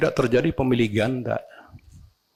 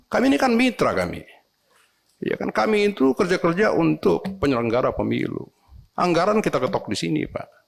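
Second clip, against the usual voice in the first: mock yell. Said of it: "Teriak-teriak".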